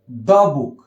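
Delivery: "the" pronounced "duh" before book; weak form before consonant. Shown as a demonstration. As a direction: say "the" with a schwa, not "dee". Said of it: "इसको हम द". ("the" का उच्चारण "द")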